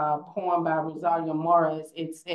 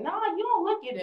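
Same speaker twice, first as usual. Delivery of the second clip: dean's dismissive retort; 12 semitones higher, faster than usual. Retold or imitated. Dean dismissing her heritage.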